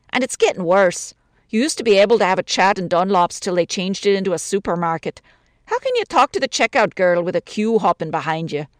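lightly voiced Irish widow, chatty grumble; a lonely woman complaining about the city; a hint of an older woman's voice, gently aggrieved.

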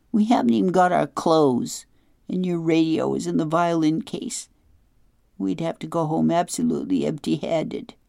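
put-on an upset girl listing what they'd lose; a hint of a fretful young girl; Claudia, upset girl.

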